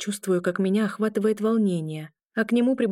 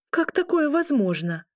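indignant; 8 semitones higher than usual. A narrator's reading. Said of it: "Возмутилась я".

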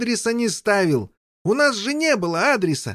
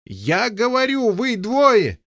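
a touch of a shout to the knights; calling out; slower than usual. Acted. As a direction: call out cheerfully, slowly. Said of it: "закричал король Пеленор".

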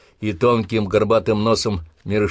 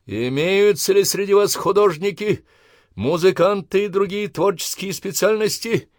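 raised voice; 11 semitones higher, 3 dB louder than usual. Acted. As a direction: raise your voice over the parade ground. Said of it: "возвысил голос Обух".

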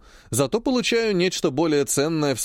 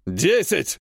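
angry exclamation. Acted. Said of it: "уже в гневе восклицает Меджнун".

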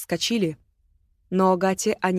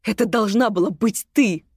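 furious shout; 3 semitones higher than usual. Acted. Агата still shouting.

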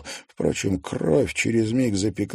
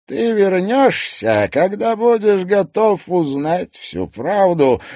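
slow, knowing villain threat; slow theatrical villain menace; 12 semitones higher, 6 dB louder than usual. Acted. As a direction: promise it darkly.

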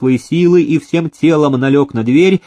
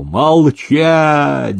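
thundering order; 3 semitones higher than usual. Acted. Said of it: "загремел Никита".

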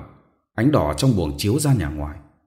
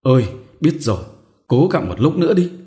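put-on higher, louder sleepy old woman's reply; mumbling half-asleep; 6 semitones higher, 6 dB louder than usual. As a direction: answer groggily from sleep. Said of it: "ú ớ thưa". (ú ớ ngái ngủ, giọng bà già)

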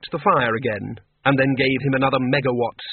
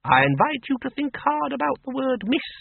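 put-on brisk old farm woman, pitched higher; a blunt countrywoman who knows more than she says; Miss Flitworth; 12 semitones higher than usual. A narrator's reading. Farm woman voiced in story.

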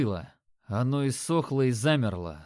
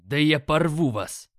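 furious; 2 semitones higher, 5 dB louder than usual. Acted. Hero vows to tear demons apart.

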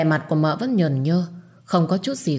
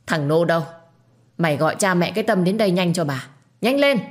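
commanding call. Acted. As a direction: summon him with authority. Matriarch summoning servant. (gọi người hầu đầy uy quyền)

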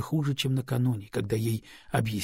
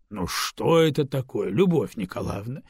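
indignant boss. Acted. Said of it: "возмутился начальник".

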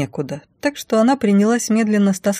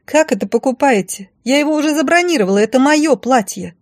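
indignant; 8 semitones higher, 4 dB louder than usual. Acted. Blonde protests indignantly.

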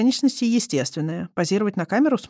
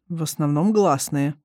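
puzzled; slower than usual. Acted. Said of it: "всё так же озадаченно ответил".

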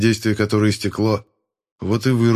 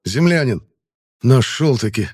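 exhaled; 3 semitones higher, 3 dB louder than usual. Acted. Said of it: "выдохнул смотритель".

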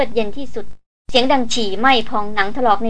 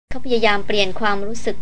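usual speaking voice

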